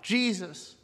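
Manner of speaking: soft, low plea fading away; hushed first call for mercy; restrained cry out. Retold or imitated. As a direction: begin the plea quietly, almost to yourself. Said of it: "he starts to cry out".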